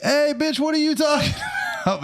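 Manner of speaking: fast, high, laughing shout at the screaming woman; mock crowd yell. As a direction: yell it back at her like a bystander. Imagined crowd yelling back at her.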